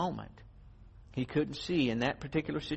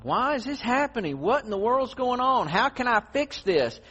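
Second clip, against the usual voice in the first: woe is me; 8 semitones higher than usual. Retold or imitated. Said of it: "woe is me cry".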